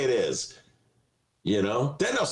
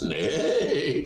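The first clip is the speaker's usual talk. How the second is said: horse neigh; 3 semitones lower than usual. Acted. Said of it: "That's my Mister Ed imitation".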